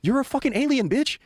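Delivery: high-pitched, emphatic alien put-down; mouthy alien. Retold or imitated. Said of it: "So the alien goes".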